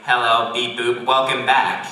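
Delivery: lightly voiced talking machine; a hint of robot greeting; robot toilet. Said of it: "the toilet will be like".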